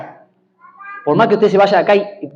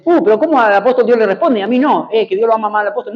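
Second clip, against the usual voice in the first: higher-pitched grumbling believer, lightly acted; mock complaint; 4 semitones higher than usual. Preacher voicing a believer jealous of the apostle, mock complaint. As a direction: imitate someone feeling passed over by God.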